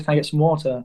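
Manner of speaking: quick British "water" with the r dropped; British-accented granddad. Retold or imitated. British granddad repeating his order to baffled servers, British accent. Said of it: "it catches people off guard".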